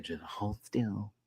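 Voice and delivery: slow, soft instruction; calm order. Retold or imitated. Mom calming her son with the snake, soft and slow. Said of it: "She's like".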